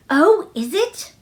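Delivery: put-on slow, eager sick boy's cry; light up with sudden hope; a mild eager cry from a sickly boy; cried out. A narrator's reading. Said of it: "he cried out".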